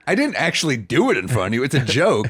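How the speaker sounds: mock-indignant self-defence; retold defensive protest. Arguing back at offended heckler.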